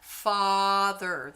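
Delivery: Father with a wide open ah; Father sung on a round open ah. Shown as a demonstration. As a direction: stretch the ah in Father, mouth open. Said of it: "there's my ah vowel".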